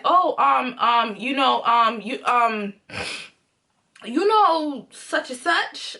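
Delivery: mock hesitant stalling, full of ums; fumbling excuse. Caught boyfriend explaining to his girlfriend, mock flustered stalling. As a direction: imitate him groping for an explanation.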